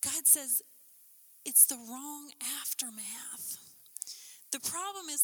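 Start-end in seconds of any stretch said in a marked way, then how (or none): 0.0-3.6 whispered verdict; hushed aside. Real, not acted. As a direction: drop to a whisper on "it's the wrong aftermath". Sudden hushed line after pause.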